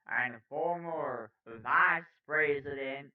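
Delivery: slow, emphatic news-anchor delivery; news read. Acted. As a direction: punch key words, lingering on figures.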